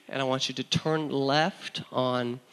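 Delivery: slow, soft patient mother; quiet, measured instructions; calm mom. Retold or imitated. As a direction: imitate mom guiding gently, slowly. Mom calmly giving directions.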